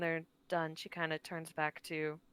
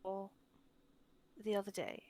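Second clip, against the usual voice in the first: sincere apology. Acted. Tilda's heartfelt apology in character.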